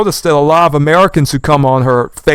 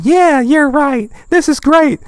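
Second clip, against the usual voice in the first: much higher, slow sugary voice; mock polite agreement; 11 semitones higher than usual. Mocking British commenters with sweet fake praise. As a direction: mimic a too-polite Brit. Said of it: "You're saying".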